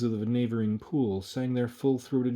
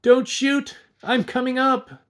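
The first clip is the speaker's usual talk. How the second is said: shrieked far higher and much louder; piercing high shout; 10 dB louder, slower than usual. Acted. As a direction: scream it in a high piercing panic. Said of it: "in a piercing, high-pitched voice he shouted out".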